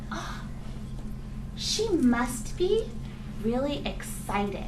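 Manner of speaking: rising, drawn-out excited guess; excited realization. Shown as a demonstration. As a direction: discover it with delight. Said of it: "and I said".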